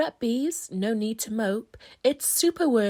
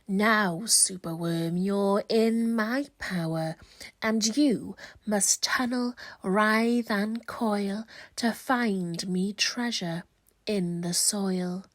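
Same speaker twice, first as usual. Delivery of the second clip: villainous wizard; 3 semitones lower than usual. Acted. Wizard casts spell on Superworm.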